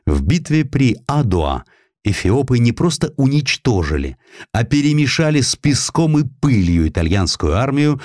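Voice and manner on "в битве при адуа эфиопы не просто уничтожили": ordinary delivery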